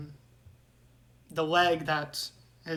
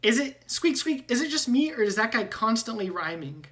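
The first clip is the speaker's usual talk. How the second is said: high, squeaky rat voice with squeaks; squeaky rat man; 6 semitones higher, 5 dB louder than usual. Acted. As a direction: squeak like a nervous talking rat, much higher. GM voicing Ratrick.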